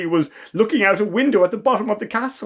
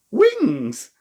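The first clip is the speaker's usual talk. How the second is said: excited; 5 semitones higher than usual. Acted. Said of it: "said the twins excitedly".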